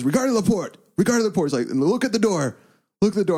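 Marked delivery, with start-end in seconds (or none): 0.0-1.5 retold outburst, pitched way up; mock angry yelling. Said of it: "he was yelling at us in French". 1.7-3.4 high-pitched retold order; retold yell, pitched way up; mock angry yelling. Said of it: "he was yelling at us".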